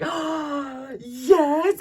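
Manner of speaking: high, loud, thrilled reply; acted-out excited recognition; retold delighted yes. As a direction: burst out with delight. Acting out her delighted reply.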